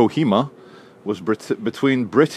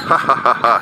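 grinding stone gravel voice. Acted. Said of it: "says the gargoyle".

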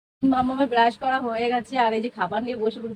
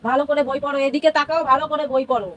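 stern mother; 2 semitones higher than usual. Real, not acted. Mother scolds child to study.

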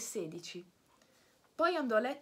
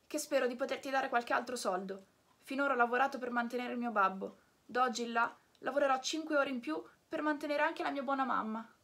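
generous puppet; 3 semitones higher than usual. Acted. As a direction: urge the snail to hurry. Pinocchio gives his money. (Pinocchio generoso e sollecito)

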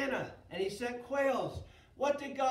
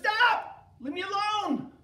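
shouted, much higher and louder; frustrated shout; 11 semitones higher, 9 dB louder than usual. Acted. Leader snapping at pestering people to stop. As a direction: throw up your hands and yell.

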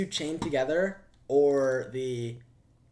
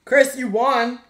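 much higher and louder cheer; loud announcement; 10 semitones higher, 12 dB louder, slower than usual. Real, not acted. Streamer loudly crowning friend the winner. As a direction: call out the winner big.

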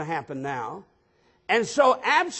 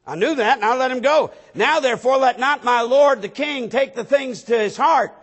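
raised, driving scripture delivery; forceful preaching; 4 semitones higher, 6 dB louder than usual. Acted. Preacher voicing what runs through David's mind, forceful and raised. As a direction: push the words out louder and higher.

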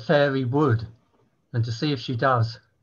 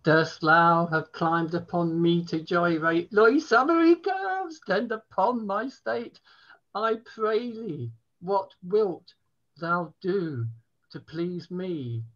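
mock-medieval poem; 3 semitones higher than usual. Poet resuming the bawdy poem after a prompt, mock-grandly. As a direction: take up the verse again with a flourish.

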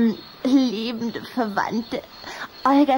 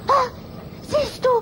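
usual speaking voice

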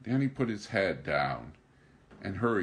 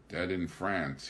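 a touch of theatrical despair; slower than usual. Acted. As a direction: let the grief drag the words. Answering himself in despair.

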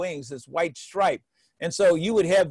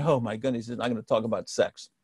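relieved parents; 7 semitones lower, 5 dB quieter than usual. Retold or imitated. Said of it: "they say".

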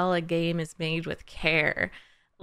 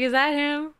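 high, excited question at normal pace; 7 semitones higher than usual. Retold or imitated. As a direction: ask it quickly in raised, eager pitch. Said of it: "I was like".

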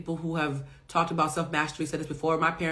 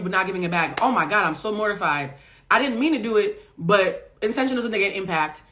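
eager, contrite friend; apologetic friend; 3 semitones higher, 4 dB louder than usual. Retold or imitated. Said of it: "were like".

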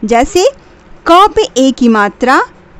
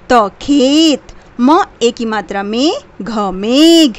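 syllable by syllable; slower than usual. Shown as a demonstration. Teacher to child, sounding out each syllable slowly. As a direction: break each word apart, slowly sounding out matra then word. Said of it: "तोड़ तोड़ कर पढ़ना है".

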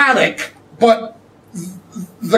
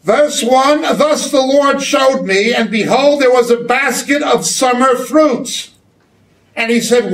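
raised voice Bible reading; scripture reading; 3 semitones higher than usual. Acted. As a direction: read the verse out boldly. Reads scripture aloud.

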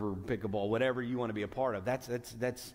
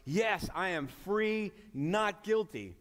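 higher, slower, delighted cry of free; mock joyful believer; 6 semitones higher, slower than usual. Preacher voices a believer hearing the good news, joyful. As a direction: voice the listener's happy relief. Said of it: "So you're like".

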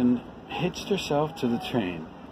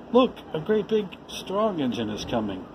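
a little clown calling out, thrilled; excited call; 4 semitones higher than usual. Acted. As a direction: pitch jumps higher on look. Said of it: "the little clown called out".

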